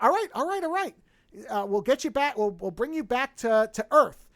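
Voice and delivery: mildly flustered, hurrying to give in; scared computer. Retold or imitated. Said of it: "I guess, is scared".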